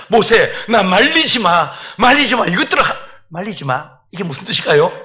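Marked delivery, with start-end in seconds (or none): 0.1-3.9 God huffing. Acted. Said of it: "거칠게 숨을 내쉬면서 주님께서 모세에게 말씀하십니다".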